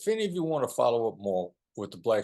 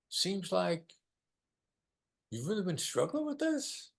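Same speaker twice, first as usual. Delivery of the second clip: much higher, gently questioning; inquiring tone; 10 semitones higher than usual. Shown as a demonstration. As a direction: float it up like a caring question. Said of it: "Use the inquiring tone of voice".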